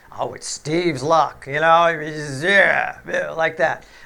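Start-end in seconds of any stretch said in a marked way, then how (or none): 0.2-1.5 dry, play-acted sarcastic jab. Quoting what people always say about his luck: imitating people's sarcasm. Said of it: "they say it with sarcasm".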